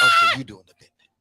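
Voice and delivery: high shrieking quote from the film; movie quote. Retold or imitated. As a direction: shriek the line like the character. Quoting a movie line.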